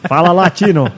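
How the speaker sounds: drawn-out announcer catchphrases; mock football narrator, stretching the words; Galvão Bueno impression. Podcaster trading broadcast catchphrases with co-host, announcer impression. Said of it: "começa a narrar igual o Galvão Bueno".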